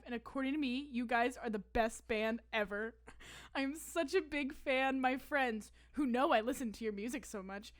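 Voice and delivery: lightly voiced earnest kid writing to a star; reading her old fan letter. Reading her sixth grade DM to a singer aloud, earnest kid fan. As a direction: read it like your thirteen-year-old self, sincere. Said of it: "I said".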